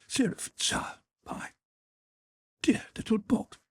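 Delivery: a mother breathes her son's pet name, barely voiced; breathless whisper. A narrator's reading. Mother to sleeping son, whispered breathlessly. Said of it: "she uttered, catching her breath".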